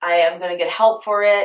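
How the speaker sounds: usual speaking voice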